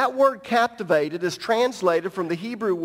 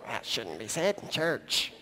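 mock prude; 7 semitones lower, 10 dB quieter than usual. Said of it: "you're going".

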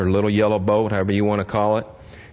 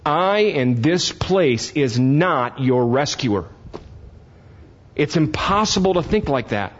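fervent slow preaching; 6 semitones higher, slower than usual. Real, not acted. Slow high preaching climax.

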